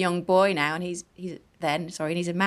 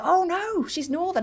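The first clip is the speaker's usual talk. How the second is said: mock gotcha; 11 semitones higher than usual. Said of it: "they'd go".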